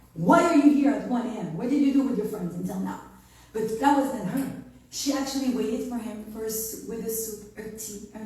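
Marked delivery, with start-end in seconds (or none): 0.1-3.0 mock scolding, louder and quicker; hammed-up suspicious wife; annoyed wife.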